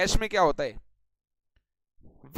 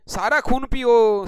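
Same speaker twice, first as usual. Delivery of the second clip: louder, slower hammed-up wail of सारा खून पियो; mock lament; 5 dB louder, slower than usual. Teacher joking that students drain his blood, loud mock wail.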